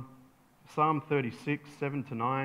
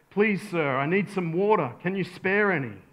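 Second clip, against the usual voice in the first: mild, slightly raised begging; acted pleading; 3 semitones higher, 4 dB louder than usual. Stranded traveller asking a camel rider for water, mildly pleading. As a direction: plead politely but with some urgency.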